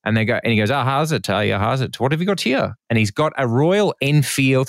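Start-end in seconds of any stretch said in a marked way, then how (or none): 0.7-2.8 put-on South African accent. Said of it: "Good accent".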